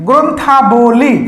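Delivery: গ্রন্থাবলী said slowly, stretching the আবলি ending; slow teacher's pronunciation of গ্রন্থাবলী; drawn-out demonstration. Shown as a demonstration. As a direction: sound out গ্রন্থাবলী slowly for learners. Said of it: "আবলি উচ্চারণ করছি".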